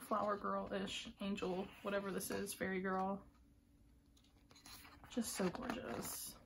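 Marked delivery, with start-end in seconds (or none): 5.1-6.3 hushed slow admiration; slow awed whisper. Real, not acted. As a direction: breathe it out, awestruck. Awed by photo.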